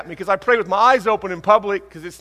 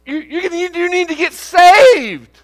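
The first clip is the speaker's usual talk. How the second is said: loud, much higher and slow rebuke; stern rebuke; 12 semitones higher, 10 dB louder, slower than usual. Retold or imitated. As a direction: hammer the you's, then land it. Counselor rebukes offended wife.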